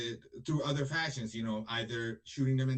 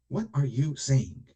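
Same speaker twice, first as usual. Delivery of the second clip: louder and slow, demanding an answer; exasperated louder repeat; louder, slower challenge; 6 dB louder, slower than usual. Real, not acted. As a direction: press the question hard, slowly.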